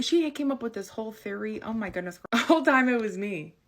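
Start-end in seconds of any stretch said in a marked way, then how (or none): 2.3-3.5 laughing confession. Real, not acted.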